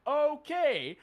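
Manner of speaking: a long shocked okay; stunned okay. Retold or imitated. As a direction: react in disbelief. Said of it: "I was like".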